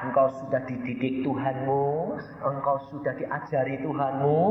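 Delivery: smooth, measured impostor; falsely gentle tempter's voice; imitated gentle Jesus. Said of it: "Ngomongnya halusnya kayak Tuhan Yesus".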